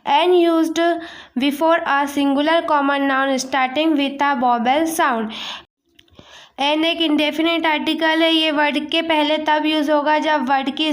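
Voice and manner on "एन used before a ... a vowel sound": very slow, each word spaced out; slow dictation. Shown as a demonstration. Teacher to students, slowly dictating the rule for an. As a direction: read it out for copying into notebooks.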